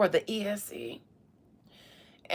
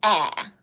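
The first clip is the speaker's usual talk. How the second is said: ah cry; 3 semitones lower, 6 dB louder than usual. Shown as a demonstration. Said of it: "but now".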